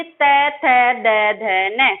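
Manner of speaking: तय थे दे धे ने said one by one with the tongue touching the teeth; letter recitation. Shown as a demonstration. Teacher sounding out the letters for students to try. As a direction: sound out तय थे दे धे ने clearly. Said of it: "बोल के देखिए".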